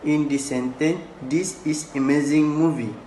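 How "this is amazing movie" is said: amazing carries the weight; reading the quote with amazing stressed. Shown as a demonstration. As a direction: lean into amazing. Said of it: "the speaker stress on word amazing".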